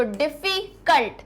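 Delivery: डिफिकल्ट split as डिफी, कल्ट; syllable by syllable. Shown as a demonstration. Teacher breaking up the next word, syllable by syllable. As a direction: pause inside डिफिकल्ट before कल्ट. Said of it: "ज्यादा syllable है".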